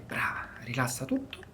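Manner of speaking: a hushed, reassuring whisper; soothing whisper. Real, not acted. Whispering to the patient on the table to relax. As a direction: whisper it softly to calm her. Calming patient before adjustment.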